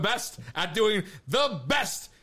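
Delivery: loud, high wrestling promo. Acted. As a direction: cut a boastful promo. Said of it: "face me in a promo contest?".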